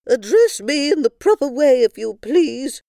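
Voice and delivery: a pompous queen correcting them; haughty queen. Acted. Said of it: "Queen Moo".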